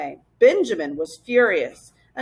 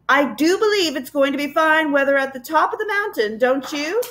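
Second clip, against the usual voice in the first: higher, pointedly cheerful small talk; raised voice; 5 semitones higher than usual. Acted. Professor talking over the tormenting Gaboons, higher and breezy. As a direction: talk over the crowd brightly. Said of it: "The professor raised his voice again".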